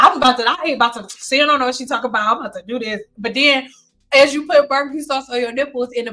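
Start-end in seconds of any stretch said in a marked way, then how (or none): 0.0-3.0 rapid, fading dismissive mumbling; dismissive imitation. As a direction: rattle it off, brushing off advice. Imitates someone ignoring her advice.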